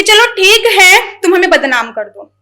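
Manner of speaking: repeated lines, a touch of wounded resignation; poetry recital. Acted. To someone who defames her, resigned shayari recital. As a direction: recite it like a hurt lover giving in.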